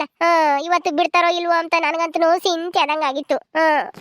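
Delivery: acted weepy lament on a level pitch; tearful relief. Wife welcoming husband home from jail, weeping. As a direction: lament through tears of relief. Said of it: "ಯಾಕ್ ಅಳ್ತೀಯ?".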